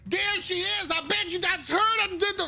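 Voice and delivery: high-pitched noble slipping into Elias's voice; a noble who sounds like Elias by mistake; accidentally Elias voice. Acted. GM's noble slips into the Elias voice. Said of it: "why am I talking like Elias?".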